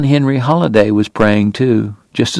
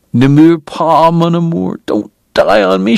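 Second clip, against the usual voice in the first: higher, pleading through tears; begging; 5 semitones higher than usual. Acted. Kate begs dying Doc not to die, pleading. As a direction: beg him not to die, voice rising. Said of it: "she begged".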